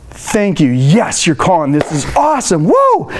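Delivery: overjoyed answer ending in a shrieked woo; excited hallelujah greeting. Shown as a demonstration. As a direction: celebrate the caller like great news. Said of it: "And you're excited".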